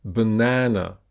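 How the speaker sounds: banana with the middle vowel held longer; stress on second syllable. Shown as a demonstration. Teacher showing learners the longer vowel, banana stressed in the middle. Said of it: "it's longer".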